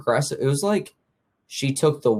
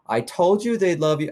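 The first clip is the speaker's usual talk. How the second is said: cooing dog lady; 8 semitones higher, 3 dB louder than usual. Retold or imitated. Neighbor shows off her ladybug dog in cooing baby talk. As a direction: coo it like showing off a pet. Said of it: "She goes".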